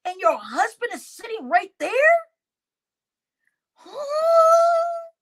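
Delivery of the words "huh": high, loud disbelieving huh; incredulous huh. Real, not acted. Aghast that husband sat there, high incredulous huh. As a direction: sound utterly baffled.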